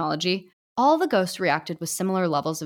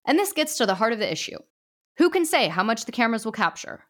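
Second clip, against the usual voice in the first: a lightly raised, formal judge voice; stern ghost judge; 3 semitones higher than usual. Acted. Judge addressing the ghost society, lightly formal. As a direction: pronounce it from the bench, gently raised.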